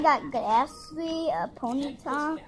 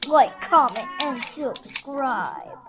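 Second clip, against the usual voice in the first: slow villain voice; 5 dB louder, much slower than usual. Acted. Repeat in slow deep villain voice.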